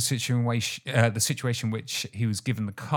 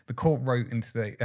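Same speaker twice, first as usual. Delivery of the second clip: ordinary talk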